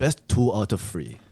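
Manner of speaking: lightly voiced Japanese coach. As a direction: announce it with a put-on Japanese accent. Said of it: "you to be the Japanese coach".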